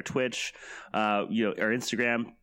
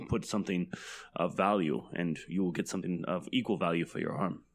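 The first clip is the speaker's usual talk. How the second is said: lightly voiced tree; 5 semitones lower, 4 dB quieter than usual. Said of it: "And the tree says to her".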